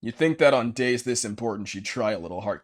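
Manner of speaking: normal talking voice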